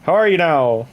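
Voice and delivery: put-on playful small-town Canadian accent; Letterkenny accent. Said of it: "you could do Letterkenny".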